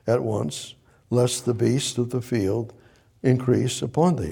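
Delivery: unhurried scripture reread; read slowly. Shown as a demonstration. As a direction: take each phrase slowly and clearly. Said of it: "I'll read that again slowly".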